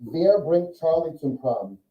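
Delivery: Wer bringt Charlie zum Prom? spoken slowly, with weight on Wer; careful, slow example sentence; slow demo sentence. Shown as a demonstration. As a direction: lay out each word slowly, as if on the board. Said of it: "no German would ever say".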